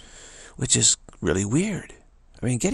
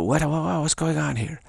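higher-pitched, playful bafflement; mock shock; 4 semitones higher than usual. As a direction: act baffled, voice lifted. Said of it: "I'm, like, shocked".

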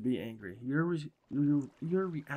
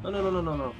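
exasperated no; 5 semitones higher, 6 dB louder, much faster than usual. Real, not acted. Pig runs away.

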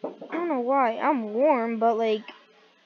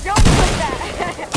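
slow, loud stretched-out don't; drawn-out protest; 4 semitones higher, 7 dB louder, much slower than usual. Real, not acted. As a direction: drag out the words in protest. Embarrassed about a clip.

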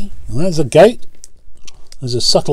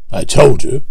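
rude; 4 dB louder than usual. Acted. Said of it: "said Gordon rudely".

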